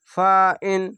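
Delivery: ফাইন ending crisply on ইন without ghunna; ফাইন, no nasal stretch; no nasal hold. Shown as a demonstration. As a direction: say ফাইন with a short clean ইন. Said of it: "ইন বলে এরকম বলবেন".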